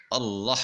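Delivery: اللہ recited with the sound after the ل held still, not moved; correct recitation. Shown as a demonstration. Tutor models اللہ for students, held letter kept still. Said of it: "کیسے پڑھنا ہے؟".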